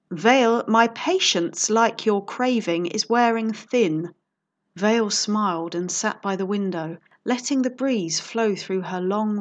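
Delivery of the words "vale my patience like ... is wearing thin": slow, loud, losing patience; impatient. Acted. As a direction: grind out a warning. Count's patience runs out.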